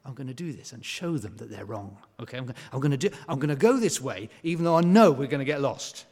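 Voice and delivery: defiant grumble. Retold or imitated. Defiant inner voice.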